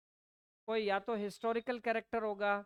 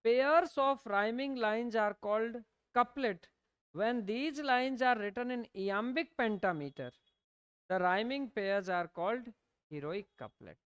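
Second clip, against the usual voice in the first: slow, even note-dictation pace; 3 dB louder, much slower than usual. Acted. Teacher dictating notes to students, slow and deliberate. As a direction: read it out word by word so students can write.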